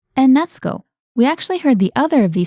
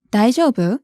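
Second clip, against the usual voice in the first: 大丈夫? lifted at the end as a question; rising question tune. Shown as a demonstration. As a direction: ask 大丈夫? with a rise on the end. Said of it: "So, for example".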